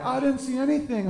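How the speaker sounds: high, slow, frightened hen whispering devotion; cowed chicken. Retold or imitated. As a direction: drag out the words like a brainwashed hen. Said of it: "Meryl Streep chicken's in the corner like".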